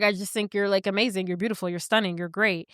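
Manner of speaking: low, sinking compliments; smooth flattery. Retold or imitated. Kevin flattering Charlie.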